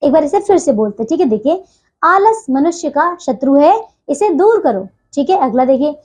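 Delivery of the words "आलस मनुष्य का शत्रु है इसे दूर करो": slow reading, brief pause after शत्रु है; brief semicolon pause. Shown as a demonstration. Teacher rereads the example, brief pause after शत्रु है. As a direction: break briefly between शत्रु है and इसे दूर करो. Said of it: "इसमें हम कुछ समय के लिए, बहुत ही कम समय के लिए रुक रहे हैं".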